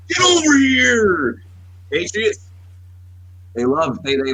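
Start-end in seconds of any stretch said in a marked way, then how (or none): 0.1-1.4 high, long drawn-out holler; stretched-out, high-pitched call; eager calling out. Acted. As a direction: holler it like beckoning a recruit over. Voicing teams welcoming felons.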